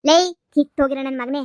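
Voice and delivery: loud scolding yell at the conman; angry insult. Acted. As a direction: bark out the abuse. Mother insults the fake groom.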